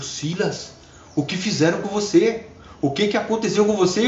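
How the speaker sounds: put-on astonished girl. Girl shocked by Silas's changed face, astonished. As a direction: sound stunned by what you see.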